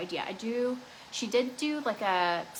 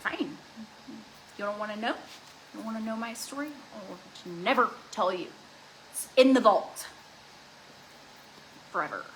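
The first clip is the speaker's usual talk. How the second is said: mock sulky vow. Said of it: "I'm like".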